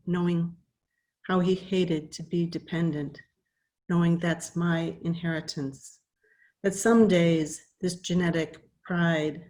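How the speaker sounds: measured poem reading with pauses between phrases; poetry reading. Acted. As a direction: read it as verse, line by line, unhurried. Reads own poem aloud.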